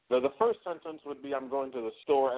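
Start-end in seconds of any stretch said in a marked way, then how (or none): 1.3-2.4 quick throwaway Dusty line; said kind of fast. Shown as a demonstration. Wrestler demoing Dusty's quick first sentence, fast. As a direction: rattle it off without weight. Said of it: "that one's said kind of fast".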